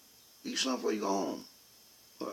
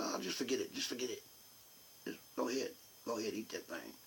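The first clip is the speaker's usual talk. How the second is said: upset wife; 4 semitones lower, 4 dB quieter than usual. Retold or imitated. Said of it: "she kinda got upset".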